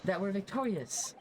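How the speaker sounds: high, breathless and theatrical; dramatic. Acted. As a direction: overdo the amazed lawyer. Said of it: "how dramatic this guy is".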